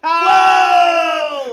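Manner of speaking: loud, high burst of delight; excited shout. Real, not acted. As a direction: yelp it out, thrilled. Excited reaction to joke expert.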